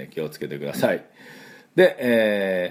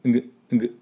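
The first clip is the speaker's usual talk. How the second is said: throat ng; 3 semitones higher, much faster than usual. Shown as a demonstration. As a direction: ring the NG in the throat. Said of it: "喉の奥で".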